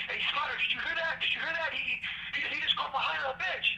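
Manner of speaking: mock outrage, pitched high; outraged complaint. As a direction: run to the boss about the insult. Guard complaining to superior, worked up.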